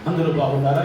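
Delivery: a light imitation of a preacher greeting the online crowd; mock greeting. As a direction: put on a casual host's hello, lightly. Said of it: "ఇలా మాట్లాడుకోవచ్చు కదా".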